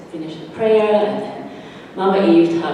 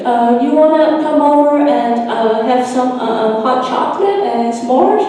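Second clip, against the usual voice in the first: put-on much higher, halting girl voice with giggles; shy stuttering invitation; 10 semitones higher, 3 dB louder than usual. Michaela inviting the children to her hut, shy and stammering.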